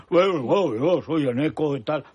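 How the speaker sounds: mocking imitation of a rustic muleteer's delivery; Eneco Andueza. Host mocking a politician who talks like a muleteer, lightly exaggerated imitation. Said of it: "¿Por qué habla así, como si fuera un arriero".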